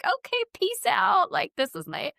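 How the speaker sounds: high, slow, mock breezy send-off; lightly mocking goodbye; sarcastic farewell. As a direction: ironic shrug at a ghost gift. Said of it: "And you're like".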